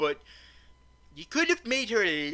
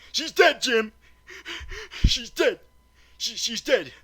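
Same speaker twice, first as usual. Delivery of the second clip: higher, louder mock-tragic "she's dead"; hammed-up dramatic announcement; 8 semitones higher, 5 dB louder than usual. Reviewer jokingly declares the character dead, hammed-up loud. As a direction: ham it up like a grave doctor. Star Trek quote, repeated loudly.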